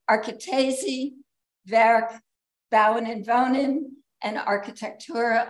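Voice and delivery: self-deprecating attempt at a German accent on the journal names; bad German accent. Shown as a demonstration. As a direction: say the German titles with a halting German accent. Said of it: "forgive my bad German accent".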